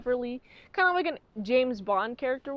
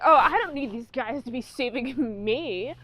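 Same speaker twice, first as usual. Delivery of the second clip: hammed-up vampire woman. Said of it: "the chick who's like".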